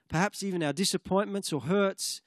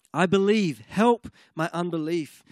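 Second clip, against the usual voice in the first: crying out; 5 dB louder than usual. Retold or imitated. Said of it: "it's like he's crying out".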